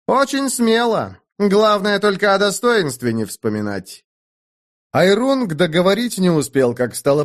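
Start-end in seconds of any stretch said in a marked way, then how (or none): 0.1-4.0 sarcastic. A narrator's reading. Airung keeps mocking rival.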